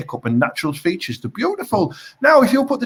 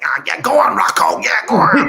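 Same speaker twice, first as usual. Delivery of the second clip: creepy Uncle Paulie; 4 dB louder than usual. Retold or imitated.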